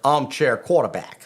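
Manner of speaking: attempted American accent; lightly done American twang. Shown as a demonstration. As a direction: put on your best American accent. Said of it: "as my best American accent".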